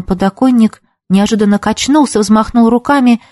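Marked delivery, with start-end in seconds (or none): none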